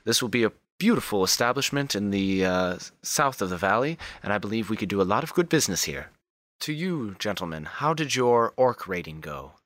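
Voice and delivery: high, lilting formal hostess voice; Wilhelmina. Acted. Madam commending her staff on the new establishment, gracious high voice. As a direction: start high and commending, then settle into polite formality. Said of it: "Wilhelmina says".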